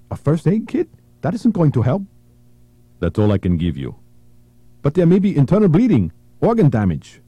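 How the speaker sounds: high, urgent plea; pleading woman. Acted. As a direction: beg to save the girl. Woman protests the first aid kit.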